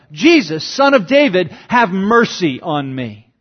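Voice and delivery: half-voiced plea from the roadside; mild retold yell. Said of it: "The blind man yells out".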